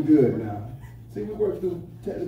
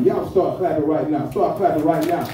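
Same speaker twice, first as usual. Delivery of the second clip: hype call; 5 dB louder than usual. Real, not acted. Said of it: "host hypes crowd".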